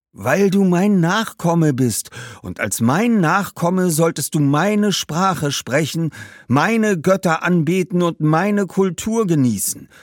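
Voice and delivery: high, slow, emphatic ancestor; outraged ghost. Acted. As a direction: insist loudly, stretching the words. Ghost insists angrily. (empörter Geist, hoch und nachdrücklich)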